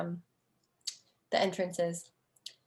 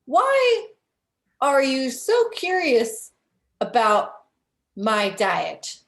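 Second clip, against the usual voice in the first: high, louder, defensive question; suspicious Otto; 5 semitones higher, 4 dB louder, slower than usual. Acted. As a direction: snap back high on why. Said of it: "He says".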